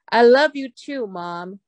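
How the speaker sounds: son's reply. Retold or imitated. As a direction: say it straight out to mom. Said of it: "所以他就直接". (儿子直接对妈妈说爱)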